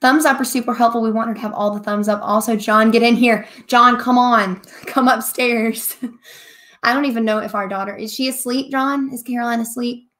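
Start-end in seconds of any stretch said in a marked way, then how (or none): 2.2-5.9 calling up the stairs. Real, not acted. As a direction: raise the voice to reach another room. Calling husband from downstairs.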